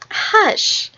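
put-on voiceless shush to excited children; hushing. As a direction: shush them on one high breath. Storyteller silences the excited children.

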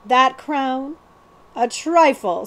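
dismissive scoff. Acted. Billy scoffs at the crown's worth, dismissive. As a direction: wave the crown away. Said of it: "scoffed Hold Your Nose Billy".

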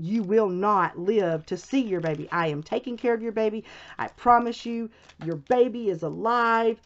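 retold firm insistence, key words stressed; talking sense firmly. Nurse telling a panicking mother to calm down, firm. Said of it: "trying to talk sense to me".

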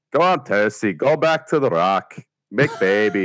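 a lightly put-on Northern English accent, imitating Sean Bean; a weak Sean Bean impression in a Northern accent; bad Sean Bean. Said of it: "Sean Bean impression where he goes like".

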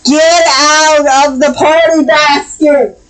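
an exasperated owner yelling at the cat. Real, not acted. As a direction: shout the cat out of the basket.

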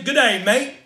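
lightly imitated Australian accent; a touch of mock-Australian greeting. Shown as a demonstration. Preacher listing accents for the congregation, lightly imitated Australian accent. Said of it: "there's Australian".

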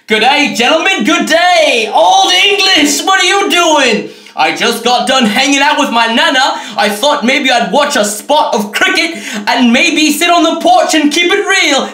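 hint of a British toff; posh British gent. Old English bottle, British gent.

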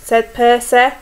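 expressive storyteller with lifted owl lines; story reading to children. A narrator's reading. Teacher reads owl story to young children, expressive storytelling. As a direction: read a picture book to little ones.

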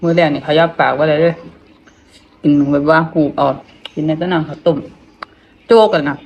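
talking through stiff, swollen lips; barely moving the tight lips. Real, not acted. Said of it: "มันตึง มันขยับบ่ได้".

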